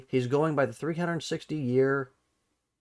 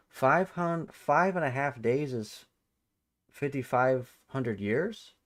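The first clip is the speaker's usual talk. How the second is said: incredulous repeat. Real, not acted. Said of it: "That's news to me".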